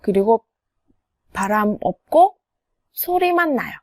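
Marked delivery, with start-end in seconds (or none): none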